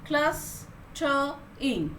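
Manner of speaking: clustering stretched very slowly, each syllable held apart; syllables drawn out. Shown as a demonstration. Teacher counting syllables aloud, clustering drawn out very slowly. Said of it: "So with three syllables".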